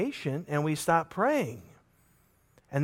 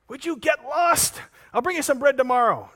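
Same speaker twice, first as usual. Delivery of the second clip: irritated brush-off; 9 semitones higher, 3 dB louder than usual. Acted. Neighbor snaps back at knocker.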